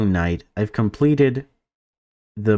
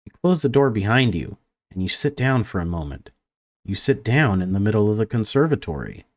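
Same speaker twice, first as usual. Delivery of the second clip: even, measured read-aloud of game text; story narration; 2 semitones lower than usual. A narrator's reading. Gamer reads a conservatory scene to viewers, story narration. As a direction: narrate it evenly, pausing between sentences.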